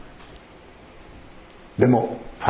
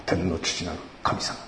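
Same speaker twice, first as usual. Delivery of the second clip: preachy prayer; 9 semitones lower, 9 dB quieter than usual. Retold or imitated. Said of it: "時々いるんです、そういう人が".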